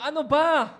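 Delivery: half-playful angry shout; retold yell. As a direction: reenact snapping at the driver. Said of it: "Sinigawan ko ng".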